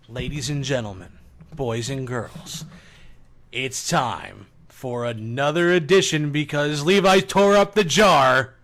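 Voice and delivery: slow showman announcer voice; booming kids show opener. Acted. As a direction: announce it like a game show host.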